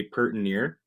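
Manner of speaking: "pert near" slowly with a clipped pert. Shown as a demonstration. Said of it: "instead of saying pretty near".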